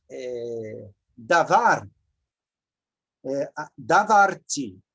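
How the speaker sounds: 1 slow model. Shown as a demonstration.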